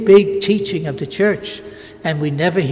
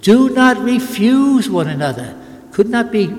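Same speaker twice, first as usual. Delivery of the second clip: slow, louder, insistent preaching to husbands and wives; forceful preaching; 2 semitones higher, 5 dB louder, slower than usual. Real, not acted. Priest exhorting spouses from the pulpit, loud and slow. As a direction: drive each phrase home like a pulpit command.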